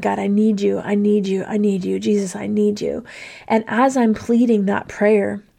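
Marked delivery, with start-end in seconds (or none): 0.0-3.0 put-on tearful, crying voice. Retelling a moment of grief, reaching out to the armrest, retelling a tearful plea. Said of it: "just crying and saying".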